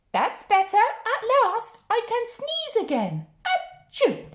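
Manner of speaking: put-on high, happy old lady then a sneeze; little old lady relieved the hen is gone.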